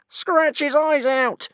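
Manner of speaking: very high, slow screech; screeching dragon. A narrator's reading. Dragon screeching for blood, very high and slow. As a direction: screech it like a vicious bird. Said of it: "screeched Brightclaw".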